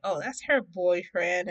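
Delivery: drawn-out, singsong mock teasing; teasing sister. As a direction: draw it out to tease, imitating a sister. Sister teases, retold.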